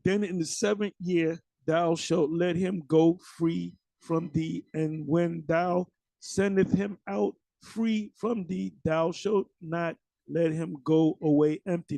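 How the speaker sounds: slow, measured Bible recitation; scripture reading. Acted. Preacher reads the law on freeing servants, slow scripture reading. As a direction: read out the verse slowly and deliberately.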